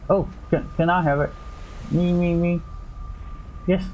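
playful eager grabbing. Real, not acted. Begging for an item.

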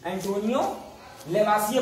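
"लेवासिए" ending in an open -ye, no R; silent final R. Shown as a demonstration. Teacher showing pupils how it is read, "लेवासिए" with silent final R. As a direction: say "Antonio लेवासिए" with the last R left silent. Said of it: "आप silent है इसमें".

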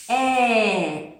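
"е" said clearly, mouth wide open; clear demo of "е". Shown as a demonstration. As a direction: show the children the sound "е". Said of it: "і ми говоримо". (чітко вимовлене «е»)

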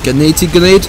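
sharp rising shout of alarm; grenade warning yell. Real, not acted. Grenade lands near his squad.

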